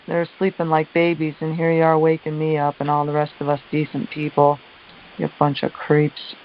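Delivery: retold angry yelling. Worn-out caller re-enacting yelling at those waking her, indignant. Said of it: "Yelling at them, yelling at them".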